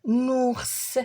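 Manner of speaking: "نونورس" as nou, pause, nours; "نونورس" sounded out in two parts; split into syllables. Shown as a demonstration. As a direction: break "نونورس" after the first syllable. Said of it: "لي سيلاب اللي فيهم او".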